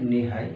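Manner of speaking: "নি হাই" with the h kept; unchanged pronunciation. Shown as a demonstration. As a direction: say "নি হাই" straight, no sound change. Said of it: "উচ্চারণটা change হবে না".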